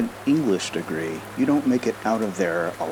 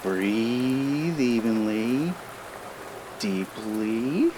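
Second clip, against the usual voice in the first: very slow, soft breathing instruction; calm her toward sleep; soothing guidance; 4 dB quieter, much slower than usual. Shown as a demonstration. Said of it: "Get comfy".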